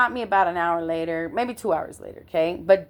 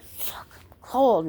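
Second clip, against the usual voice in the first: imitated shivering; 3 semitones higher, much slower than usual. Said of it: "she's shaking, she's so cold".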